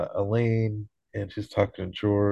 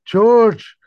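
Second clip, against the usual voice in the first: much higher, much louder call up a rock face; retold yell from below, higher and louder; 11 semitones higher, 8 dB louder than usual. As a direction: shout it up the cliff to George. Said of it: "Tony yells up to Kramer and George".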